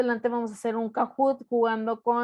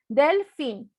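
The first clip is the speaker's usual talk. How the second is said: DELfin punched on DEL, falling after; stress on first syllable; 4 dB louder than usual. Shown as a demonstration. Teacher imagining the word without its accent, first syllable stressed. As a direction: hit the DEL of delfín, let fin drop. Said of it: "si no tuviera todavía el acento".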